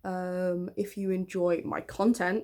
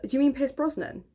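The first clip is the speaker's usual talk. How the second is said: put-on teasing older girl; 6 semitones higher than usual. Older girl teasing six-year-old Hannah, mocking. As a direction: poke fun at the little kid.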